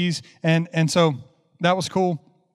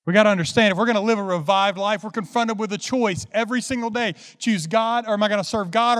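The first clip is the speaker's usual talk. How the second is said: earnest preaching; 3 semitones higher than usual. Acted. Preaches to congregation.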